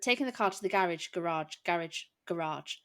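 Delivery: "garage" tried several ways, searching for the sound; trying out garage. Retold or imitated. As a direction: test "garage, garage, garage" aloud, unsure which is local. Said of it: "literally like that".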